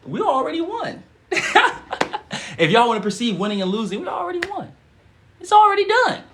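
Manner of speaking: high, laughing victory cry; laughing triumph. Real, not acted. Host celebrating the affirmation with viewers, high laughing triumph.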